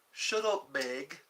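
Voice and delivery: Peter Griffin line. Retold or imitated. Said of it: "all I could think of was".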